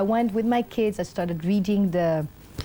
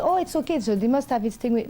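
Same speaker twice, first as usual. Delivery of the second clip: breezy, much higher voice, casual on purpose; fake calm; 5 semitones higher than usual. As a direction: brush it off lightly, putting on an act. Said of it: "I'm in my fake mode".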